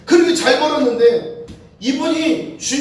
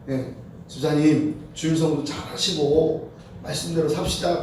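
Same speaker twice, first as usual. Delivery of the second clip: gentle admonition; 6 semitones lower, 4 dB quieter than usual. Retold or imitated. Pastor gently admonishing the deacon.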